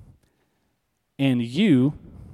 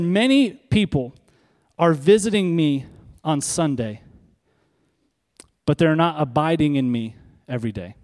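lightly voiced divine message, deliberate; voicing God's words. A touch of God's voice, preacher quoting what God told him. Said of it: "He said".

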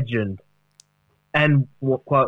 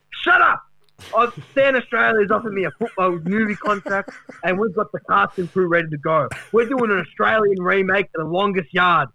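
higher, hyped boasting; mock excited Duck; 5 semitones higher than usual. Duck boasting to the panel about his movie, higher and excited. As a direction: brag like a washed-up star. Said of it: "Duck bragging about movie".

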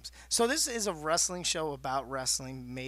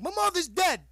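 higher, louder deadpan retort; loud comeback; 10 semitones higher, 6 dB louder than usual. Retold or imitated. Cohost mimicking Caden's comeback, loud and high. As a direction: hit back hard. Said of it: "I was like".

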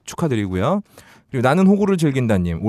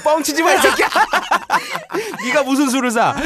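laughing mock scold; 13 semitones higher than usual. Real, not acted. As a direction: scold him while cracking up.

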